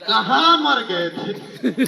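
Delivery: slow, drawn-out mock demand from the wife; wife's nagging question. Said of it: "तो बोलती है". (पत्नी की धीमी, खिंची हुई नकली डाँट)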